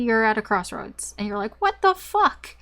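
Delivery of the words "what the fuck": high, loud disbelieving "what the fuck"; shocked outburst. Retold or imitated. Tarot reader voicing the client's shock at a crossroads, high and loud. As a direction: blurt it out in sudden shock.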